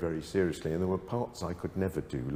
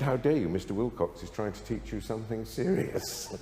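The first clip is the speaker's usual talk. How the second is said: indignant retort; 3 semitones higher than usual. Retold or imitated. Composition teacher scolding her student, mock indignant rebuke. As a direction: imitate the teacher's scandalised rebuke. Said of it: "and she said".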